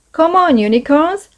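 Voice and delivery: high cheer from the bank; root for the team out loud. A narrator's reading. Cheering the boat race on.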